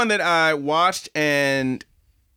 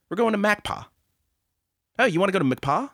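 dumb bro voice; 6 semitones higher than usual. Retold or imitated. Mocking characters' planet name.

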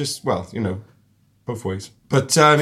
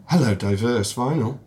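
posh phone voice; 4 semitones lower than usual. Real, not acted. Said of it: "It's Graham's phone voice".

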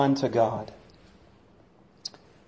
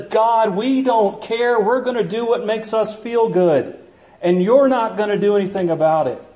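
mock-defiant, higher and brash; a cocky dismissal of heaven; defiant world; 4 semitones higher than usual. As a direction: throw it in God's face with a sneer. The world defying God.

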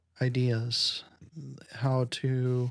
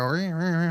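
mock engine revving, a bit higher; dirt bike noise; 4 semitones higher than usual. Shown as a demonstration. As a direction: imitate a kid's motor sound. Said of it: "pretend you're holding the handlebars and go".

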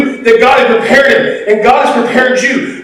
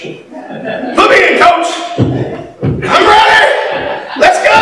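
high, slow, breathy laughing plea; laughing eager plea; 7 semitones higher, slower than usual. Acted. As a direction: beg the coach like a kid. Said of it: "he said".

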